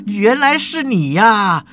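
angry outburst. Acted. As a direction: build up the insults until you are shouting high. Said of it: "当场就有人开骂啦".

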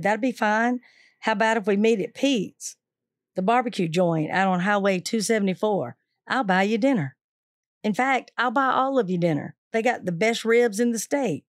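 calmly kind offer to his enemies; cheerful invitation. Retold or imitated. Watts offers dinner to threat.

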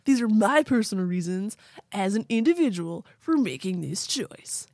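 laid-back surfer bro voice; surfer dude. Acted. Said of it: "It's like a surfer dude".

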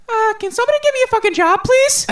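high, loud, fast snapping yell; angry outburst. Retold or imitated. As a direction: blurt it out furious. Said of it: "I looked dead face back at her".

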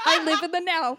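laughing delivery. Real, not acted. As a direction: declare it while cracking up. Cracking up at own catchphrase.

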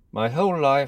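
a hint of a regal declaration; lightly voiced royal pledge; quoting the young Queen.

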